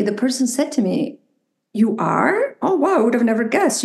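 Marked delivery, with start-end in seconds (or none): 1.7-3.8 imitating a surprised stranger; lightly acted astonishment, rising on the question; mock surprise. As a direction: play back someone's amazed reaction. Retells a stranger's amazed reaction.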